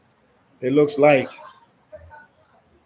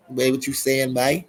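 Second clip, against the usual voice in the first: put-on Bahamian accent, a bit more pitched up. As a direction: say it again with a Bahamian lilt. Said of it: "that's that Bahamian accent I just did".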